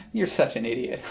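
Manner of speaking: low, soft line through laughter; mock him while laughing; scornful giggling jab; laughing mockery. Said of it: "she might be laughing at him".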